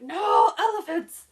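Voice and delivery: hammed-up terrified cry of no elephants; mock freakout shriek. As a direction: shriek it like a panicking lady. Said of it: "freaking out".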